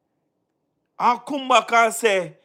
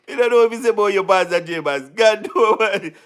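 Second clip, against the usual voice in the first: laughing while talking; 4 semitones lower than usual. Real, not acted. Laughing at the pastor's claim.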